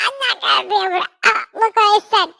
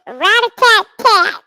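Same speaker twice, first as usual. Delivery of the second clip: rat on acid; 3 semitones higher, 6 dB louder than usual. Acted. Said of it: "I sound like a rat on acid".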